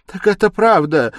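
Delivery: very high, loud exclamation; alarmed mother exclaiming; astonished cry. A narrator's reading. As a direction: cry out, shocked at the news. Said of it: "вскричала Пульхерия Александровна".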